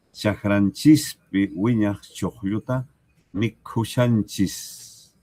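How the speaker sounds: repeating the southern form slowly for the class, a careful demo; southern variant, slowly. Shown as a demonstration. Variante del sur, despacio. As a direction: draw out wiñaj with a rising end, the words slow and deliberate. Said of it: "O chakranchikpi wiñaj choqlluta".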